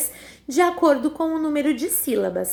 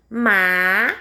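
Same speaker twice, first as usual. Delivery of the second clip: sílabas separadas; 5 semitones lower, 3 dB louder than usual. Shown as a demonstration. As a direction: pause after each syllable of "Majestade". Teacher repeats word split slowly. (majestade bem devagar, ma... jes... ta... de)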